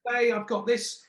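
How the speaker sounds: gushing host greeting, too much; overexcited presenter. Retold or imitated. Presenter overdoing it when greeting the camera, hammed-up gush. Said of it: "who are going".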